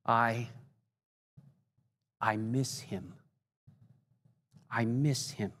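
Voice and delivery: quiet, breaking voice, barely holding it; voice cracking. Retold or imitated. Preacher quoting Templeton, voice cracking with grief. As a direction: let the voice crack on the words. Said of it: "in a voice that began to crack".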